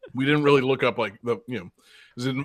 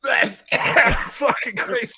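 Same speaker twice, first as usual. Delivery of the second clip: high, coughing mid-sentence; sputtering after a bug in the mouth; just swallowed a bug; 10 semitones higher, 6 dB louder than usual. Real, not acted. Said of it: "A bug flew in my mouth".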